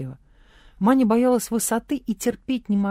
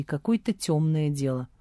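plain reading voice

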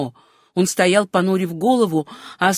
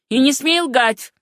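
higher, slow and forceful warning; shouted order; 5 semitones higher, 4 dB louder than usual. A narrator's reading. Sam's father demands the truth, higher forceful cry. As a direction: raise the pitch and press each word. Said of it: "крикнул отец Сэма Райта".

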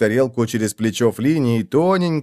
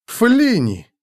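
gasped exclamation, pitched high and falling; изумлённый возглас; 9 semitones higher than usual. A narrator's reading. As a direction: exclaim it in astonishment. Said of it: "ахнул я". (изумлённо ахнуть)

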